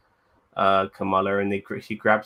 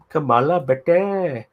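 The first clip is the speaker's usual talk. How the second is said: put-on high, loud South Asian grandma accent; grandmother's accent; 7 semitones higher, 7 dB louder than usual. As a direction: put on a lilting Desi grandma accent, pitched up and louder. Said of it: "Kamala's grandmother sounds like a Jamaican man".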